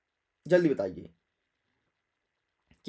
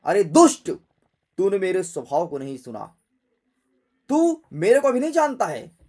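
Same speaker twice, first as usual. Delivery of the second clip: angry, loud rebuke in bursts; Parashuram; 6 dB louder, much faster than usual. Acted. Parashuram rebukes the boy who mocked him, acted anger. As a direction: scold forcefully, punching the first words. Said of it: "परशुराम जी अपने फरसे को देख करके बोले".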